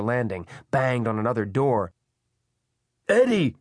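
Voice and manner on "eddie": loud, high shout upward; Pelham shouting. A narrator's reading. Man warning woman floors above, shouting. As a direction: shout the name up the stairwell. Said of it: "he shouted up into the stairwell".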